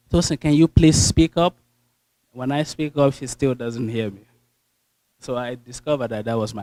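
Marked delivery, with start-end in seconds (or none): 0.1-1.6 higher, louder voice of a polite professor; mimicking professor. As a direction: imitate the professor asking kindly. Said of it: "And my professor will say".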